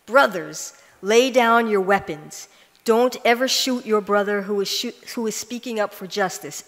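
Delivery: a hint of a preacher's appeal; lightly voiced sermon plea; quoting a preacher. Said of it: "Mullah Cameron said to the soldiers".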